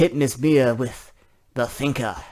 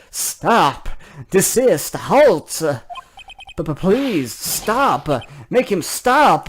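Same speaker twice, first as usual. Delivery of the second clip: frantic loud pleas to stop, voice jumping high; panicked yelling; 4 semitones higher, 4 dB louder, much slower than usual. Acted. Mister White panics and yells at the court to stop. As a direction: cry out in panic as if cornered. Witness panics as his secret surfaces.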